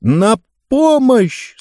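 slow, drawn-out call for help; crying for help. A narrator's reading. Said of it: "снова крикнула Таппинс".

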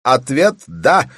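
high, loud, impatient yell; impatient shout. A narrator's reading. Bellman shouting over a ferry horn, impatient. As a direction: shout it into the phone, out of patience. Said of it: "прокричал он нетерпеливо".

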